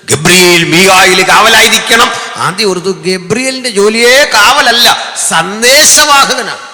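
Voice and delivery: high, loud, slow preacher's call; preaching shout. Real, not acted. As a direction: drive it home to the crowd. Preacher emphatic rising. (ഉച്ചത്തിലുള്ള പ്രസംഗ ശബ്ദം)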